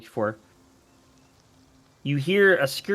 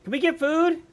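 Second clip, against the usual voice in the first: much higher begging critter voice; squeaky raccoon chorus; 13 semitones higher, 3 dB louder than usual. Acted. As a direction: beg like a hungry little animal. Pack of raccoons answers.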